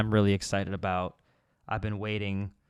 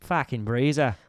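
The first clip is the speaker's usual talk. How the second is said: put-on Australian accent. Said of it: "say it with the accent".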